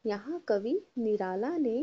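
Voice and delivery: sing-song classroom recitation; teacher leading repetition; repeat-after-me tone. Shown as a demonstration. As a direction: say it so pupils can copy. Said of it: "बोलिए मेरे पीछे".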